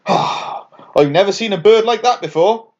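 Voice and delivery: a raven tweeting in surprise. Acted. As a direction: tweet it out, amazed. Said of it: "tweeted a raven".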